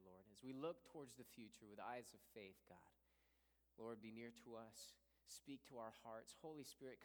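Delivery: soft, hushed prayer voice; opening prayer. Acted. Pastor praying over the church, hushed and reverent. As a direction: pray it softly to God.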